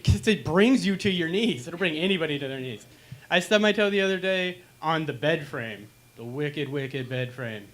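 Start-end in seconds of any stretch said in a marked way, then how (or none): 6.2-7.7 "wicked, wicked" stretched slow and low; drawn-out wicked. Acted. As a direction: linger on "wicked" like cursing a villain. Cursing the bed frame.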